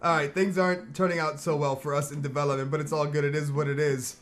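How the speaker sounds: low, soft, beaten-down voice; dejected. Real, not acted. Streamer still sulking over the draw, dejected. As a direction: mumble it out defeated. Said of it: "I'm still upset".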